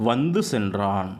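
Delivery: very slow, each word drawn out; very slow example. Shown as a demonstration. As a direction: read வந்து சென்றான் slowly for students. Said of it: "தூ உச்சரிப்பு பாருங்க".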